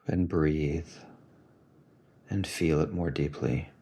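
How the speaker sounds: soft, unhurried guiding voice; calm meditation guidance; guided meditation. Acted. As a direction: gently lead a listener into the feeling, leaving long pauses.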